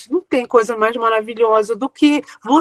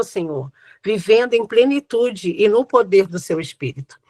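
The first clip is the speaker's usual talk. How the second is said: prayer. Real, not acted. Prays aloud to close the talk.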